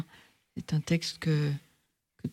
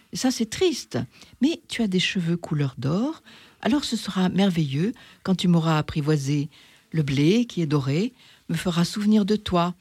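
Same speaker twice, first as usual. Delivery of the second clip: lightly voiced fox. The fox questioning the little prince, lightly voiced. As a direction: play the fox sizing up the stranger. Fox's long speech.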